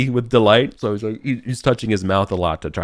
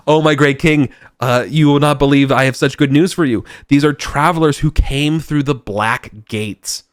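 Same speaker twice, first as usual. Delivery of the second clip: high, loud eager fawning announcement; groveling goblin herald; 6 semitones higher, 5 dB louder than usual. Acted. Goblin announces travelers to his king, high and fawning.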